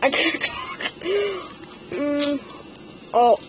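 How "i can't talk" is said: lip pinched. Real, not acted. Clothespin on upper lip.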